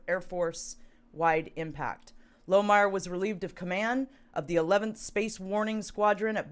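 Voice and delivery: measured article reading; steady, formal report delivery; news read. Real, not acted. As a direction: read the news story aloud evenly. Reads news article aloud.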